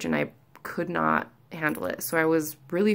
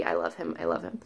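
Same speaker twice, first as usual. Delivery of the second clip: fond hush; 7 dB quieter than usual. Real, not acted. Patient praising her OB, soft fond murmur. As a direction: murmur it fondly.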